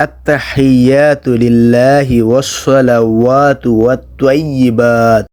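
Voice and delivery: slow, measured Arabic recitation; careful recitation. Shown as a demonstration. Teacher showing the first line, slow recitation. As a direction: draw out each long vowel. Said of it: "প্রথম লাইনটা দেখেন".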